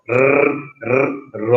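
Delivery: র tapped with the tongue tip behind the teeth; dental r demo. Shown as a demonstration. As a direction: tap র lightly, tongue tip to gum. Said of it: "জিহ্বার ডগা ... উচ্চারিত". (জিভের ডগায় র)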